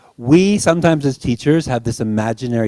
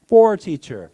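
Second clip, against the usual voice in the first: higher, louder student reply; student answering; 8 semitones higher, 6 dB louder than usual. Retold or imitated. Student answering teacher's question.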